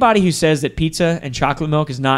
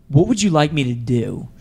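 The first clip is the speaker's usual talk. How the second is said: smiling, pleasant delivery. Retelling a reply to someone who was screaming at him, retelling a smiling reply. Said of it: "I'm just kind of smiling".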